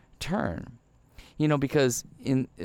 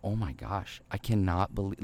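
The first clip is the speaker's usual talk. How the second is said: hushed gasp of regret; 2 semitones lower, 6 dB quieter than usual. Retold or imitated. Regret after snapping at barista.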